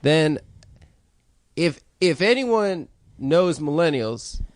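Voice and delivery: lightly voiced slow Steve Harvey; doing Steve Harvey. For friends, a slow, lightly voiced Steve Harvey joke. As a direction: tell it slow like a host. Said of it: "I'm gonna do Steve's joke".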